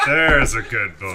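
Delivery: slow, patronizing Southern drawl; Southern sheriff. Acted. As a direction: pat the kid like a Southern sheriff. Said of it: "turned into, like, a southern sheriff".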